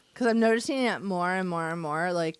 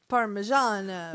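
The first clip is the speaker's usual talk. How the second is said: Italian pronunciation of Parmigiano; mock Italian food-word flourish; Italian accent. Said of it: "She only has an accent".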